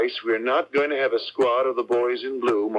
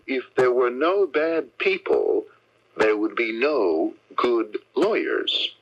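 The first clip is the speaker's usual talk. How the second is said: solemn slow quotation; slower than usual. Acted. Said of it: "may I quote you Charles Dickens".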